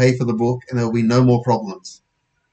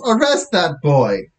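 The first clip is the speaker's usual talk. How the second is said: slow, higher-pitched command; yelling; 5 semitones higher, slower than usual. Acted. Post office manager to police, slow yelled order. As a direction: call out the order, drawn out. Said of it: "she yells".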